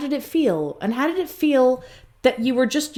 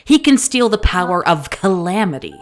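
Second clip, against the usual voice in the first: emphatic; 3 semitones lower, 6 dB louder than usual. Acted. Driving the argument home louder.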